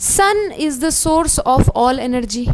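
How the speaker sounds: very slow, every word weighted; teacher stating the key fact, very slowly; slow dictation. Shown as a demonstration. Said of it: "मैं बता देती हूँ".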